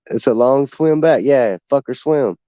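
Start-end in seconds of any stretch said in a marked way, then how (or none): 0.1-1.2 slowed, dragged-out simple guy; lazy slow delivery; slow dumb drawl. Retold or imitated. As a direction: stretch the words out slowly. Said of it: "He kinda talks slow and shit".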